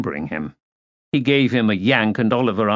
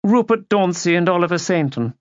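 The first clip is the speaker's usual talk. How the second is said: haughty introduction; 8 semitones higher than usual. A narrator's reading. Haughty aunt introduces her guests.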